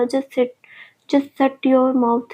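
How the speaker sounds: slow, dragged-out angry order. Acted. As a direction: spit it out slowly, barely holding back. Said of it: "वो गुस्से में बोला". (धीमा, दबा हुआ गुस्सा)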